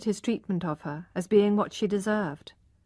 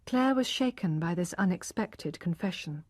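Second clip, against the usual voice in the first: ordinary delivery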